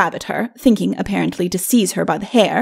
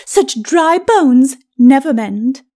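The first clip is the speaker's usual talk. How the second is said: high, very slow taunt; high, drawn-out ladyship; gloating lady; 4 semitones higher, 4 dB louder, much slower than usual. Acted. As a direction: draw out the mockery as the victorious wife. Lady gloats over fallen husband.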